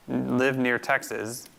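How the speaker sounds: slow, with "Texas." hit on its first syllable: TEX-as; very slow demo with the stress on the start of "Texas.". Shown as a demonstration. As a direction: punch the front of "Texas." and let the second syllable fall away. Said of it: "a two-syllable word where the first syllable is stressed".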